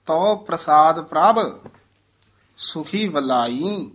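a clear pause after ਪ੍ਰਭ, then ਸੁਖੀ ਵਲਾਈ slowly; pause demo. Shown as a demonstration. Teacher modelling the pause for the student, slow and deliberate. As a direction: stop on ਪ੍ਰਭ before going on to ਸੁਖੀ ਵਲਾਈ. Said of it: "ਇਹ ਵਿਸਰਾਮ ਯਾਦ ਰੱਖਣ ਵਾਲਾ ਹੈ".

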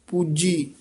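"ਪੂਜੀ" with a firm, pressed j; slightly tightened. Shown as a demonstration. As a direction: tighten the middle consonant of "ਪੂਜੀ". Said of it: "ਥੋੜਾ ਜਿਹਾ ਕੱਸ ਕੇ ਬੋਲਣਾ".

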